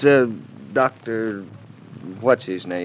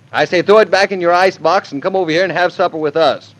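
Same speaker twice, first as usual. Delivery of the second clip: bossy; 5 semitones higher, faster than usual. Acted. Husband orders mother-in-law over.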